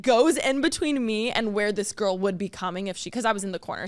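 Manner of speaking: ordinary talk, nothing marked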